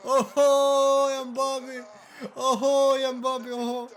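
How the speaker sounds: high, drawn-out admiring ooh; delighted awe; awed oohs. Real, not acted. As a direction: savour the chip. Marvelling at Mbappé's chip.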